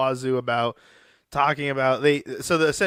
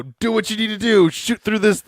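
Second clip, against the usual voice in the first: higher-pitched retold call, not fully shouted; mild mock yell; 7 semitones higher than usual. Host retelling Shaw yelling to the captain, mild mock yell. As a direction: imitate calling out urgently, holding back volume. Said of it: "she goes and yells".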